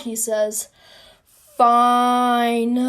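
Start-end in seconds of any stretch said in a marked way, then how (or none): 1.6-2.9 long drawn-out grudging word, then a sigh; exasperated. Acted. Court gives in to Wilmot, exasperated. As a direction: give in loudly with a heavy sigh.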